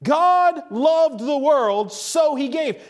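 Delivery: slow "God loved the world", then "so he gave" as the result; deliberate verse, "so" starting the second half; shifted emphasis. Shown as a demonstration. Preacher shows the moved word, shifted emphasis. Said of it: "see how it changes the emphasis".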